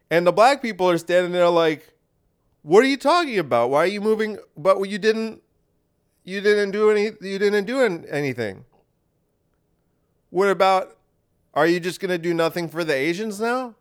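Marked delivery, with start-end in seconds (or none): 2.6-13.7 high, incredulous protest; exasperated. Acted. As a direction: plead it in disbelief. Black people voiced, exasperated.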